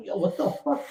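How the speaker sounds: high, stunned what the fuck; disbelief, voice shooting up; shocked outburst. Retold or imitated. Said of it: "I'm like".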